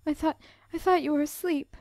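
a touch of a sob, caught off guard; sobbing. A narrator's reading. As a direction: choke it out through mild tears. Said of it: "sobbed Beth".

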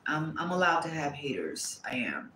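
a low, breathy whispered aside. Real, not acted. Reader whispers to viewers she may have haters. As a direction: whisper it like a private boast.

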